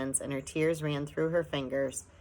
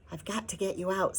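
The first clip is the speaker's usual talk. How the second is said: put-on boy's voice; 4 semitones higher than usual. A narrator's reading. The boy urging them.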